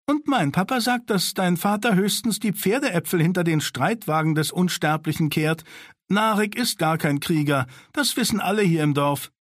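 put-on high, spiteful child's jeer; mean taunt. Sina mocks Daron that his father only sweeps dung. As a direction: belittle his father to hurt him.

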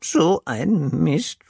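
enttäuschtes, langsames Schimpfen; schimpfend. A narrator's reading. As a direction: schimpf leise vor dich hin. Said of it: "schimpft Pinsel". (langsam schimpfend)

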